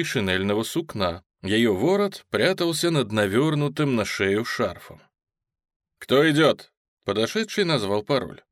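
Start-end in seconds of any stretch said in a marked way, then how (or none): 6.0-6.7 a loud sharp challenge; sentry's challenge. Acted. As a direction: call out who goes there.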